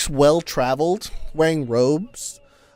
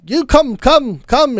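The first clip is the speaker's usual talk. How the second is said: high, insistent come-on, come-on; high-pitched eager beckoning; eager old traveler beckoning; 10 semitones higher, 5 dB louder, slower than usual. Acted. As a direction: wave them over like an excited old man. Volo beckoning again.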